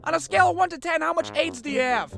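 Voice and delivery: very high, nasal-free squeak; squeaky tactless stranger. Retold or imitated. A stranger quizzing the bleeding kid, very high. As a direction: ask it with blunt concern.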